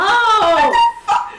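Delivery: high, drawn-out wail of disbelief; panicked. Acted. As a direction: wail it slowly in alarm. Panicked reaction repeated.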